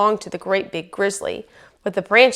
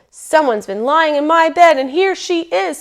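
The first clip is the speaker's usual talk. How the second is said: high, loud bear cub voice; squeaky bear cub; 8 semitones higher, 6 dB louder than usual. A narrator's reading. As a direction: squeak as big as a little cub can. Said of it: "in the biggest voice that he had".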